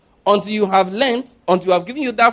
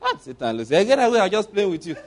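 Satan teasing. Retold or imitated. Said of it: "That's how Satan responds".

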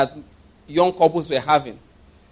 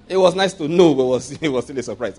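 louder with a laugh; 3 dB louder than usual. Shown as a demonstration. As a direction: repeat it louder, breaking into a laugh. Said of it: "repeat after laughing".

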